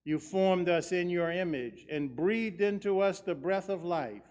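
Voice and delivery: solemn measured prayer voice; liturgical prayer. Acted. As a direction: pray it steadily, with reverence. Great thanksgiving prayer.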